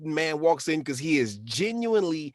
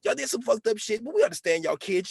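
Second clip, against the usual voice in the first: friendly soldier; 3 semitones higher than usual. Retold or imitated. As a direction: play the concerned guard, pitched up and friendly. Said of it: "Son pulled up like".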